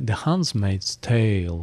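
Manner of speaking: slow, careful "The Handmaid's Tale"; careful English. Shown as a demonstration. Host proudly showing he has the title down, slow. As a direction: spell out "Handmaid's" slowly and deliberately. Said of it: "es muy difícil".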